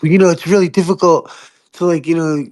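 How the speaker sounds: lightly voiced apologetic bureaucrat; excusing official. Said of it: "And they're like".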